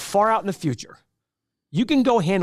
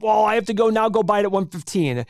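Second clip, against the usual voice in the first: higher-pitched imitation of a regretful buyer; mock regret; 5 semitones higher than usual. Trader imitating buyers who loved the stock until it fell, mock regret. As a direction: mimic a put-out investor, pitched up. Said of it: "they regret".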